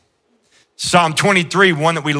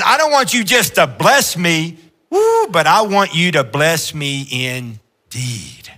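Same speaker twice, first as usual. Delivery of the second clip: preaching; 2 semitones higher, slower than usual. Acted. Preacher lifts to quote Jabez.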